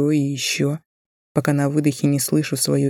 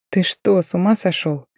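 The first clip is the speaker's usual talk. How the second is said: shocked; 4 semitones higher than usual. Acted. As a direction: blurt it out in disbelief. Shocked girlfriend exclaims. (возмущённое удивление)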